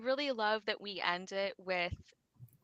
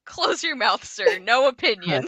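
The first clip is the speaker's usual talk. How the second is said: sharp scolding; 2 semitones higher, 13 dB louder than usual. Retold or imitated. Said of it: "and she's like".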